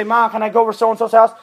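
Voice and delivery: put-on eager teenager asking permission; teen asking. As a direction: beg mom like a kid. Teen asking parent, acted.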